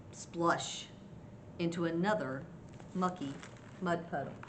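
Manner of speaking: measured picture-book reading with pauses; story narration. A narrator's reading. Grandma reads Mouse's failed stomp to children, deliberate storytelling. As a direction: set out each mishap piece by piece for children.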